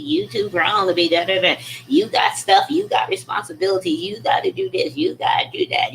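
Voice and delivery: high, fast nagging scold; mocking scolding relatives. Imitating relatives scolding her for starting a business, high and nagging. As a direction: rattle it off like a preachy relative. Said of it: "they was quoting scriptures at me".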